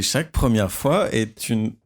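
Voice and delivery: slow, drawn-out teasing narrator imitation; mock sensual narrator. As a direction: parody the sultry reading, slowly. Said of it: "il lit sa feuille". (imitation lente de narrateur sensuel)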